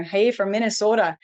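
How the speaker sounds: light, playful Minnesotan accent. Shown as a demonstration. Host greets chat viewer from Minnesota, in a put-on Minnesotan accent. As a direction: try on your best Minnesotan accent. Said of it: "that was my best Minnesotan accent".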